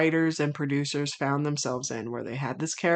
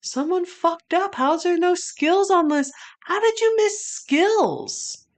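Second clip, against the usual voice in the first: much higher, rising outraged protest; outraged disbelief; 13 semitones higher, 3 dB louder than usual. Real, not acted. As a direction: demand to know how he got missed. Outraged at missing Skills.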